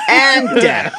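high, laughing echo of the line. Retold or imitated. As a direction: repeat it while cracking up.

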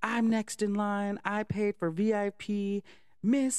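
whiny indignant complaint, slow at the start, climbing to a shrill "miss"; mock tantrum. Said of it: "this guy started throwing a fucking fit".

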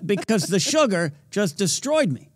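laughing through the words. Real, not acted. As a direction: giggle it out. Laughing at his own story.

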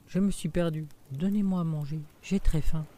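put-on a scared child begging for food; frightened. Jacques, lost, begs the giantess for food, frightened. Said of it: "Effrayé".

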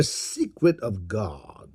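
hushed whisper, leaning in to share a secret. Acted. Preacher whispering the secret of God to the congregation, hushed. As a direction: breathe it like a secret.

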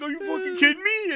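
high-pitched mock outrage; mock disbelief. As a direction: retell it as an outraged can-you-believe-this, on the edge of laughter. Retelling coworker's disbelief amid laughter.

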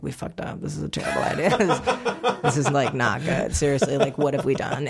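low, laughing despair; mock despair with laughs. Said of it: "my husband and I are like".

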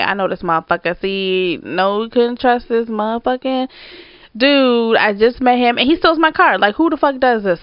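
mildly heated, retold rant; pissed-off venting. Storyteller venting to friend about stolen car, pissed. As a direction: indignation building as the pitch climbs. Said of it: "I am still pissed".

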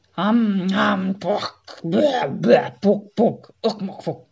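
loud, high chanted monkey babble; monkey poem. Acted. Monkey poet reciting his own verse on a table, loud babble. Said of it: "ami valahogy így hangzott".

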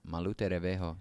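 "Malute Revejo" joined in one smooth go; name run together. Shown as a demonstration. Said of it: "It's all put together".

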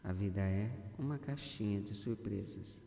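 measured, deliberate meditation delivery with long pauses; guided affirmation. Acted. Guide leading a listener to see life's positive side, guided affirmation. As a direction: guide the listener phrase by phrase, letting each settle.

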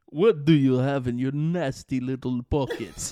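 loud put-on creature voice; menacing, wheedling creature with bite; Gollum voice. Reading a found Gollum quote to co-host, loud creature voice. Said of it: "there's one right here".

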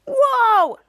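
loud, high acted whoa; big imitated jolt of shock; shocked exclamation. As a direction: cry out in mock amazement. Three friends react to zombie show.

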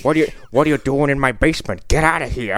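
lightly voiced grumpy old man; a hint of a cranky homeowner; Walter Matthau. Riffing on basement intruders, lightly put-on Matthau voice. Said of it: "is Walter Matthau in the fucking house".

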